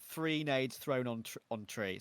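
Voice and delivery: slow Irish "three nades thrown on tree"; Irish accent. Shown as a demonstration. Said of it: "See, I'm doing it now".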